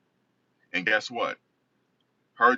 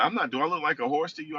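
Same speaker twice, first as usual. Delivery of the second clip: quick, higher-pitched mock indignation; fast retold protest, pitched up; indignant mother; 8 semitones higher, faster than usual. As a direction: lightly imitate an affronted mother refusing.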